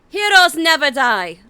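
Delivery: slow, soaring healer line; calm heroic healer; Mercy voice. Retold or imitated. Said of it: "What was the other one I can do?".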